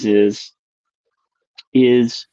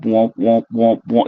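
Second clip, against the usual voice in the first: imitated womp sound; slower than usual. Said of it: "this sound that went womp".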